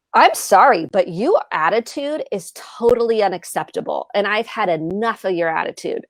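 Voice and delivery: a fake apology that turns on the child; blaming apology. Shown as a demonstration. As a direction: apologize and then blame. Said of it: "I'm not really apologizing".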